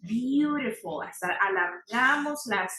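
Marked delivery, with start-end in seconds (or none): 0.1-1.0 "Beautiful" with a drawn-out first syllable, BEAU-tiful; longer, emphasised "Beautiful"; lengthened stress. Shown as a demonstration. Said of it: "So we make it a little longer".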